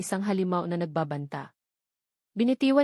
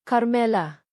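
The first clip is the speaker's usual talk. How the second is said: a hint of a rougher, deeper man's voice; 3 semitones higher, 4 dB louder, slower than usual. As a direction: say her full name like a man roughened by the sea. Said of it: "ang boses ay mas malalim ... magaspang".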